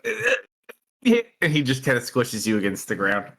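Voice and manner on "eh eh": high, short grunts of being pushed down; acted high-pitched struggling grunts; squashed grunts. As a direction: strain under a heavy hand. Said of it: "and you're like".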